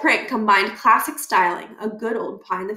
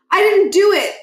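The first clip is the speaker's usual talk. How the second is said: protesting; 10 semitones higher, 7 dB louder than usual. Acted. Miles protesting.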